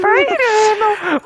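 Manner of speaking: high, loud call; shouting a name. Real, not acted. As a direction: yell his name across the room. Calling out a friend's name.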